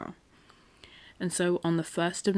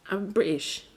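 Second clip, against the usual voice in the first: British accent; 3 semitones higher than usual. Shown as a demonstration. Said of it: "See, I even say British".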